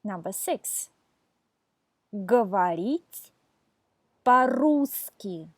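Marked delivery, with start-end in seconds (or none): 2.1-5.5 "говорить" and "по-русски" drawn out for repeating; unhurried teacher model of "говорить по-русски"; slow model for repeating. Shown as a demonstration. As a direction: say "говорить по-русски" slowly and clearly for students to echo. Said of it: "Listen and repeat these verb phrases".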